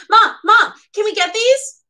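put-on high, eager child begging; pleading child. A narrator's reading. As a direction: beg mom like an eager kid. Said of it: "Jasper pleaded".

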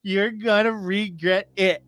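cocky warning. Acted. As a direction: warn the table with swagger. Gambler warns the other players.

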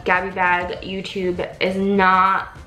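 talking around a mouthful of pistachios; mouth full. Real, not acted. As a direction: chew and talk at once. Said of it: "I'm talking with my, my mouth full".

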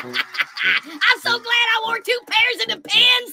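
high, slow words squeezed out through laughter; laughing hard. Acted. Roast guest laughing helplessly at jokes, high laughing shout.

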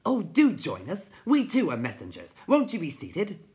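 high, loud little creature; twittering. A narrator's reading. Tiny invites the newcomer to join, high twitter. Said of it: "and twittered".

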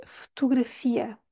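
fotografia as futugrafia, stress on fi; Portuguese pronunciation. Shown as a demonstration. Teacher setting Portuguese fotografia against the English photography. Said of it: "mas em português é".

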